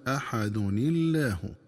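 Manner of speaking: أحد الله linked as "aḥadun-illāh", slow; joined reading. Shown as a demonstration. Teacher isolating the link, slow and careful. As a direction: say أحد الله with kasra nun, no hamza. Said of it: "بكسر نون التنوين".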